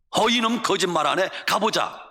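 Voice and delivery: mildly angry father, acted; disbelieving scold, then a brisk order; father yelling. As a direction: play a father challenging a lie. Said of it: "아버지가 냅다 소리를 지릅니다".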